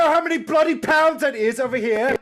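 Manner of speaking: Gary impression. Mocking Gary's complaint.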